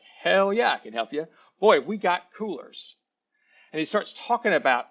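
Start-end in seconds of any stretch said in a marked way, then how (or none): 0.0-3.0 imitating an eager salesman, higher and louder on the punch phrases; excited young salesman. New hire greets a customer wanting a cooler, mock excited. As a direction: play up the cocky new salesman's enthusiasm. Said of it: "he is so excited".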